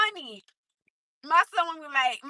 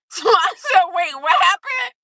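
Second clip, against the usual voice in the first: high, loud and breaking up with laughter; laughing; 3 semitones higher, 6 dB louder than usual. Real, not acted. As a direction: barely get it out for laughing. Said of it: "if I'm laughing a lot".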